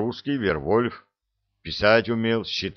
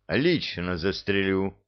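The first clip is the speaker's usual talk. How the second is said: harsh; slower than usual. Acted. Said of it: "сказал Лузгин жёстко".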